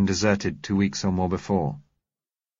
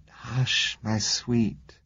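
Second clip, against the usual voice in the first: gentle; 3 semitones higher, much slower than usual. A narrator's reading. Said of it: "I said gently".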